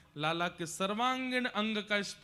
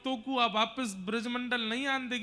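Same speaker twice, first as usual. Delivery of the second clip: raised, pleading mother's voice; anguished mother; 4 semitones higher, 3 dB louder than usual. Acted. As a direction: push through the hurt in a higher pitch, acted. Yashoda दुखी होकर लाला से कहती है. (आहत माँ का ऊँचा, भावुक स्वर)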